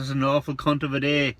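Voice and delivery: flustered blurt. Acted. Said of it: "he got all flustered".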